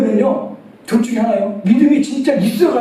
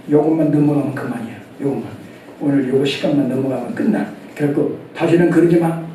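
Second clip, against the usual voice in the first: low, scheming aside to himself; sly inner voice; 7 semitones lower than usual. Retold or imitated. A child thinking he'll get away with it, low and sly. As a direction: mutter the secret thought, lower. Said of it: "속으로는 뭐래?".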